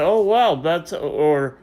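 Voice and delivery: high, mock-surprised feigned confusion; mock surprise. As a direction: act like you barely recognize them. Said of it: "I say".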